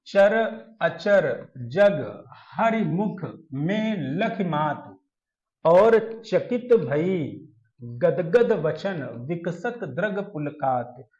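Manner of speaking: very slow, drawn-out verse reading; measured poem reading for students; verse recitation. Acted. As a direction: recite word by word, stretching the vowels. Recites verse slowly to class.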